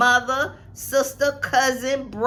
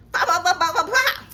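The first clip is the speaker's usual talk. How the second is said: mock popping; 6 semitones higher than usual. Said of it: "That's how mad I was".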